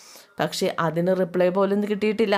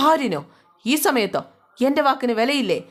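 indignant outburst; 5 semitones higher than usual. Acted. Father angry at late arrival.

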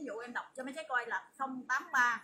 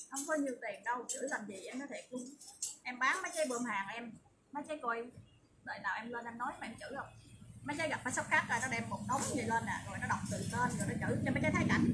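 usual speaking voice

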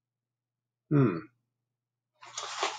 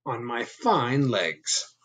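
proud Bob; 3 semitones higher than usual. Acted. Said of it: "said Bob".

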